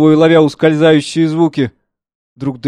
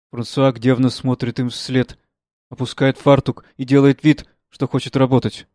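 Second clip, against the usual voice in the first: stage direction reading; 3 dB quieter than usual. A narrator's reading. Narrator reading the play's directions, quiet and even. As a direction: read the directions softly and evenly.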